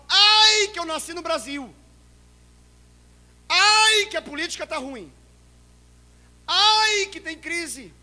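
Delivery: high, loud whiny "Ai" then complaints; mock whining. Preacher mocking believers who complain. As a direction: whine like a self-pitying churchgoer. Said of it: "a gente fala assim".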